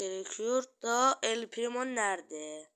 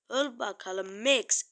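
slow taunt; 6 dB louder, slower than usual. Real, not acted. Taunting enemy mid-fight.

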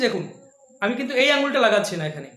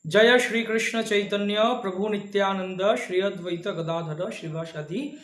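recited mantra; slower than usual. Shown as a demonstration. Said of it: "পঞ্চতত্ত্ব মহামন্ত্র বলা হচ্ছে".

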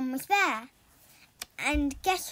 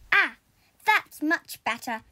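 cackling witch; 7 dB louder than usual. A narrator's reading. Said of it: "cackled the witch".

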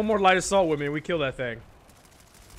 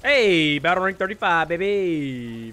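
excited; 3 dB louder, slower than usual. Real, not acted. Celebrating a rank up.

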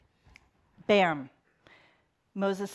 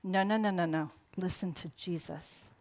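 gentle correction; 8 dB quieter than usual. Retold or imitated. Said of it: "So maybe God is saying".

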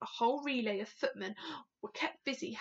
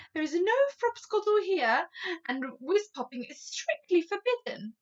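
stern warning; 6 semitones higher, 6 dB louder than usual. A narrator's reading. Sophie sternly forbids the giant.

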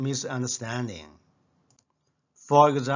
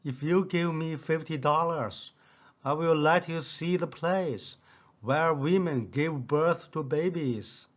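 seductive voice; 2 semitones higher than usual. Retold or imitated. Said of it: "said in a seductive voice".

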